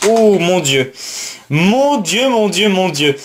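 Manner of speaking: high-pitched, thrilled disbelief; excited amazement. Real, not acted. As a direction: gasp it out high, over and over, at a lucky find. Découvre une carte rare inattendue. (émerveillement excité, voix aiguë)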